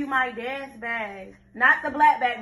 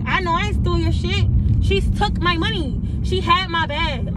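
angry; 4 semitones higher, 3 dB louder than usual. Real, not acted. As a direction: hammer each accusation home. Angry rant continues.

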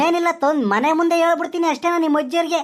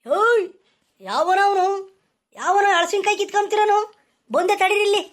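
raised, higher angry shout at thieves; angry yelling; 4 semitones higher than usual. Acted. Orchard owner yells at boys stealing jackfruit, angry shout. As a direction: bark at the boys up the tree.

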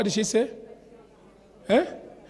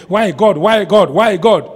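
mounting mock complaint; 7 dB louder, slower than usual.

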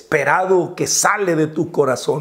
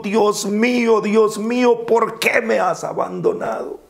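lightly raised, pleading cry; a higher cry of Dios mío, fading at the end; anguished cry; 5 semitones higher than usual. Shown as a demonstration. Jesús en la cruz gritando al Padre, a mild raised cry. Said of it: "ese grito".

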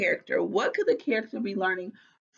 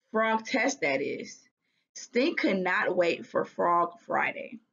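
lively storybook read-aloud; reading to children. A narrator's reading. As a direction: read it like a children's chapter book. Teacher reads the story aloud.

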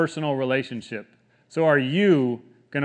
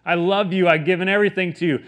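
acted protest, a little raised and pressing; mad at God; 3 semitones higher, 4 dB louder than usual. Believer questioning God in hard times, mildly mad. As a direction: plead a grievance with a touch of anger. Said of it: "you're mad at God".

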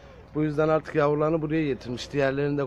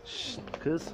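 sharp high hiss-call at the cat; a quick high shush; high hushing call; 12 semitones higher, 7 dB quieter than usual. Real, not acted. Warning the mother cat off, high shushing call. Shooing cat away from kittens.

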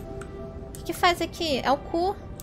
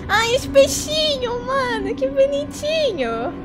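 cute anime streamer; 8 semitones higher, slower than usual. Real, not acted. Cooing at cute fish.

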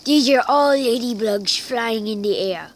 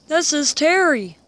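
raised, louder surprise; surprised; 5 semitones higher, 5 dB louder than usual. Real, not acted. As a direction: notice the name with a jolt. Surprised at a name.

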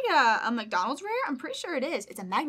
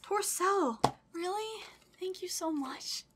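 close to tears; 5 semitones higher, slower than usual. Real, not acted. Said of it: "I'm not gonna cry".

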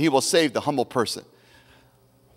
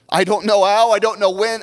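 louder, rising repeat of the phrase; louder build; 5 semitones higher, 4 dB louder than usual. Shown as a demonstration. Pastor repeating the phrase to the church, now louder and rising. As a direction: push it up, rising on how and when. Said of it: "repeated phrase, now rising loud".

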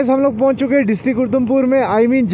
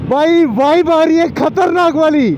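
echoing tunnel; 5 semitones higher, 3 dB louder, slower than usual. Real, not acted. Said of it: "tunnel में देना कैसे गूंजता हो जाएगा".

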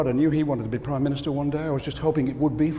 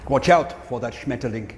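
mock German warning; 3 semitones lower than usual. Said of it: "Can be a harsh language".

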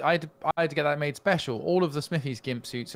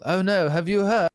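mock villager; 3 semitones higher than usual. Imagined villagers spreading mock-dramatic news.

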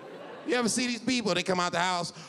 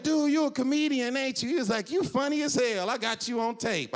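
high porn star voice; 9 semitones higher than usual. Retold or imitated.

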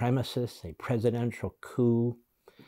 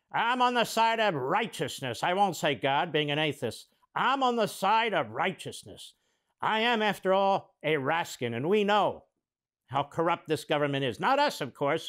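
higher-pitched hammed-up piety; mock righteousness; 5 semitones higher than usual. Host parodies congressman claiming moral high ground, mock righteous. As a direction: proclaim it as a mocking parody.

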